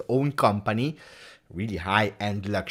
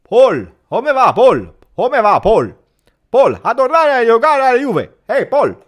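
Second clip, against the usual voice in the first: mock Allegri with a thick Livorno accent; Allegri on the phone; 12 semitones higher, 12 dB louder than usual. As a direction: boom out a friendly Italian phone greeting. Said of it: "Allegri called him personally, took the phone, he said".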